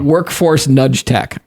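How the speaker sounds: drawn-out, each word spaced; slow and deliberate. Real, not acted. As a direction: savor each word slowly. Savoring absurd jargon slowly.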